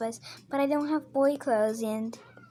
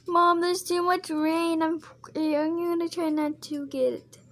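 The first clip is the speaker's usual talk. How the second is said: put-on child whining to mom; 5 semitones higher than usual. Child character complains about rain.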